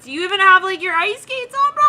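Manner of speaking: high, loud, exasperated challenge; mock incredulous yell. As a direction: yell it in comic disbelief. One panicked figure challenges another.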